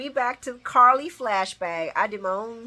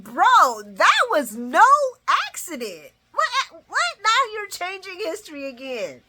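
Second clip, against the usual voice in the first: loud indignant outburst; 10 semitones higher, 6 dB louder than usual. Real, not acted. She argues back at Sonny.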